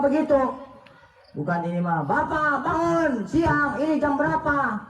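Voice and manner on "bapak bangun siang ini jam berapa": nagging wife. Retold or imitated. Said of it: "Kan salah itu".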